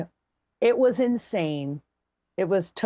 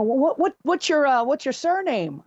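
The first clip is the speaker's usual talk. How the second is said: tipsy slurred question; 7 semitones higher than usual. Retold or imitated. Drunk girl voiced in story.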